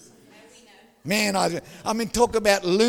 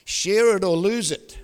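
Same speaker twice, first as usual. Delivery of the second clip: stern grandpa warning; 4 dB louder, slower than usual. Retold or imitated. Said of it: "The spirit of slap comes on".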